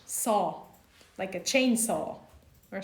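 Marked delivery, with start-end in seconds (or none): 0.0-0.6 'saw' like the English word saw; open vowel. Shown as a demonstration. Teacher comparing the vowel to English saw. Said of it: "Saw is like S A W in English".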